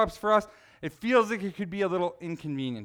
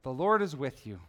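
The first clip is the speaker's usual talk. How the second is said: polite; 6 semitones lower, 5 dB quieter than usual. Shown as a demonstration. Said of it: "We got a very polite angel in Gabriel".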